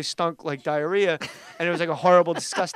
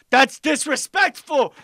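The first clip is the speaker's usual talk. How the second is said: mock indignant yell; 8 semitones higher, 7 dB louder, slower than usual. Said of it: "they're yelling at".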